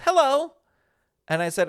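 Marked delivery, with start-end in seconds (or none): 0.0-0.5 high, sweet imitated hello; very nice greeting. Teen girl greeting a passing stranger, mock-nice. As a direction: imitate a friendly girl, pitched well up. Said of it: "very nicely says".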